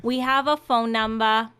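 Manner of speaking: put-on Audrey-style New York accent; hammy musical-theatre New York accent; Little Shop of Horrors accent. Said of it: "Little Shop of Horrors accent".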